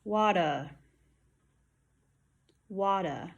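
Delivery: water ending in a vowel, "wat-uh"; "Water" as wada, R replaced by a vowel; dropped final R. Shown as a demonstration. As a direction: say "Water" with no R, just uh at the end. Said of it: "I heard wada".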